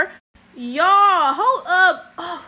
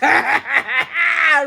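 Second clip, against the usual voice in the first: big burst of laughter; loud laugh; 3 dB louder than usual. Real, not acted. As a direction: laugh out loud at your own mockery. Laughs after mocking the woman.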